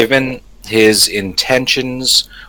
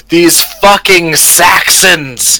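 mock wail; 8 semitones higher, slower than usual. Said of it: "wail, rip off my clothes, and go".

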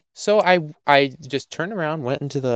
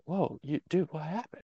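1 mock innocent question; 3 semitones higher, 15 dB quieter than usual. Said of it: "and I'm like".

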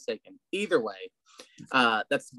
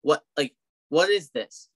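retold bafflement; 4 semitones higher than usual. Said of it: "I was like".

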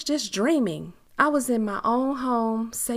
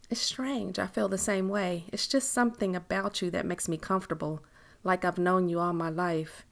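lightly voiced woman confiding. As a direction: lightly play the woman opening up.

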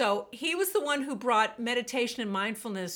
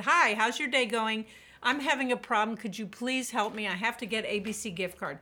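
friendly greeting. Retold or imitated. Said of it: "I went to the front and I said".

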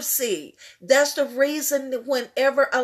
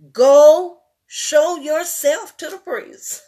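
preacher's shout; 6 dB louder than usual. Acted. Preacher shouting Jesus' words.

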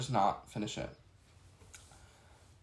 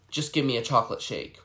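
demanding. Retold or imitated. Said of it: "she was like".

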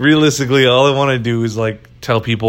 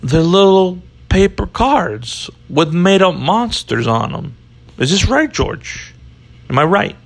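Italian Chicago cop; 7 semitones higher than usual. Pretend. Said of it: "worst cop impression ever".

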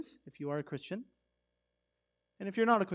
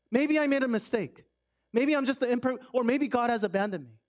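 anxious self-doubt; 4 semitones higher, 4 dB louder than usual. Retold or imitated. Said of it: "You're saying".

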